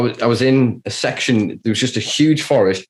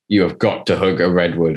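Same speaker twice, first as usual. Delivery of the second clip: dead serious; 3 semitones lower than usual. Retold or imitated. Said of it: "serious face I've ever seen".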